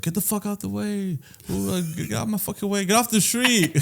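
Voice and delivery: high, soft mock yelling; mock heckling. Imitating strangers on his street, mock heckling. Imitating passers-by shouting at him.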